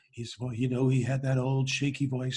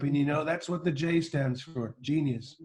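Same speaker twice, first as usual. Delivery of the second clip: Donald Trump impression. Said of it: "we have Donald Trump".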